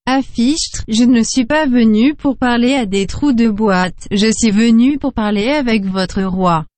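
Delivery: flat formal translation machine; machine translator voice. Acted. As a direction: stiff translator box voice.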